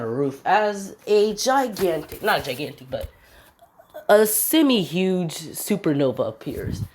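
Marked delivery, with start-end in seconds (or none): none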